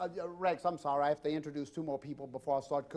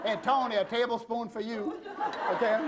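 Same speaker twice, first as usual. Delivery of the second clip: laughing tease; 5 semitones higher than usual. Real, not acted. Teasing Tony about extra vanilla.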